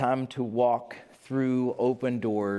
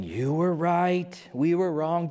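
mock grovelling admission; 4 semitones higher, slower than usual. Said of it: "and saying".

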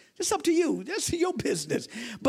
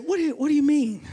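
higher, indignant retold challenge; taken aback; 4 semitones higher, 3 dB louder, faster than usual. Preacher challenges his friend's wife over her correction, acted indignation. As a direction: push back as if baffled by a correction.

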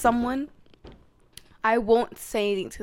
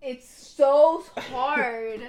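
mock impressed; 5 dB louder, much slower than usual. Squeezing his muscle, impressed.

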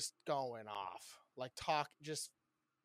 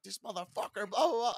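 higher-pitched mock outburst; imitating your own workplace meltdown; retold freak-out; 7 semitones higher, 6 dB louder than usual. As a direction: rant it like you're freaking out, rising louder on the blahs. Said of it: "freaking out".

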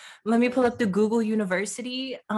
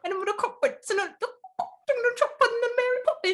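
laughing; 14 semitones higher than usual. Real, not acted. Playful nonsense, laughing.

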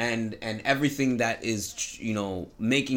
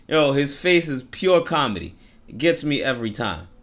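ordinary delivery

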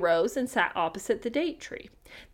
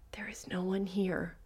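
eerie storybook whisper; hushed, voiceless and very soft; whispering to itself; 3 semitones lower, 13 dB quieter than usual. A narrator's reading. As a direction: whisper it as if talking to yourself. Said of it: "whispering to itself".

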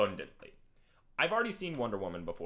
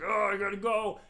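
high, louder mock alarm; mock urgency; 9 semitones higher, 5 dB louder than usual. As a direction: play a hero in a hurry, lightly. Retold Bruce rushing into the city.

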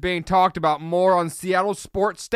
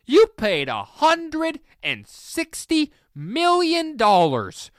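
incredulous rant; 7 semitones higher, slower than usual. Real, not acted. Ranting at Giants fans.

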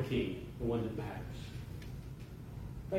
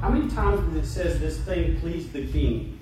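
preaching. Acted. Preacher to congregation, underlining verses in Esther, emphatic preaching. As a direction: preach the verses out with force, leaning on key words.

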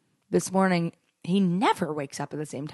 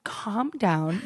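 slow, drawn-out plea to settle; retold calming; 2 semitones higher, much slower than usual. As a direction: stretch it out to soothe him. Retells soothing her angry boyfriend.

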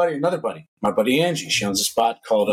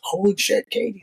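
high-pitched retold exclamation of delight; excited greeting; 9 semitones higher than usual. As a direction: greet a friend you just ran into, higher pitched. Excited retelling of running into Katie.

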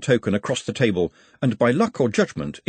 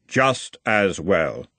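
slow, unearthly Death; grim reaper voice; 3 semitones lower, much slower than usual. Acted. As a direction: speak as Death, unhurried. Death answers Nutt.

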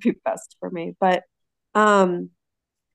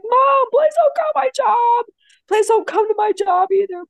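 much higher, louder sobbing plea; hysterical crying plea; 12 semitones higher, 7 dB louder than usual. Retold or imitated. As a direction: beg your mother through tears. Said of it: "crying hysterically".

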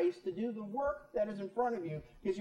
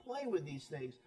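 soft, hushed fatherly plea; pleading father; 6 dB quieter, slower than usual. Retold or imitated. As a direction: gently warn a son, much softer. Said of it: "he's just saying".

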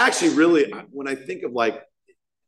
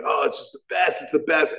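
higher-pitched mock gushing; all fired up; 5 semitones higher than usual. Imitating a member raving about his meeting, fired up. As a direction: rave like an eager fan. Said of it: "He's all fired up".

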